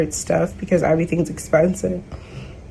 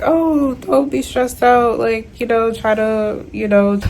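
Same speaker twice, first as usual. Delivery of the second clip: high, airy mock-soothing voice; mocking their advice; 5 semitones higher than usual. Vlogger mocks doctors telling her not to stress, high mock-soothing. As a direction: parrot the doctors' calm advice with a sneer. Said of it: "And they say".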